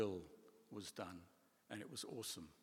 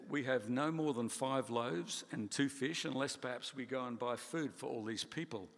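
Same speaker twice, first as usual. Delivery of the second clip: touch of sarcasm; 2 semitones higher, 5 dB louder than usual. Retold or imitated. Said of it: "little sarcasm".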